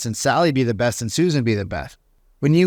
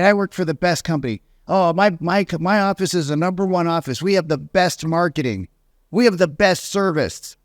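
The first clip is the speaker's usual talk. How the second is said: mock boast; 4 semitones higher than usual. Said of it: "Y'all say you work for the best company".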